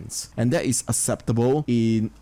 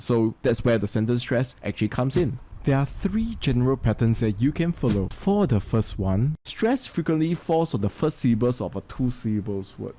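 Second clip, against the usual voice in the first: ordinary talk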